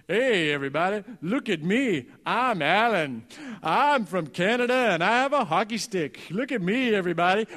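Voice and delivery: a mild mock brag, like a kid at a party; lightly voiced braggart, loud and silly; Alan, silly show-off. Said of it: "he would do an imitation of Alan".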